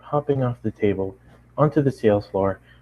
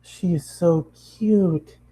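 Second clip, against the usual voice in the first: gushing customer; 8 semitones higher, much slower than usual. Acted. Customer gushing over pony.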